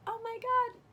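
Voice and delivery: very high, emotional squeak of disbelief; overcome, imitated in a high voice; retold choked-up. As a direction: act out getting choked up, pitch way up. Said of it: "I got all choked up".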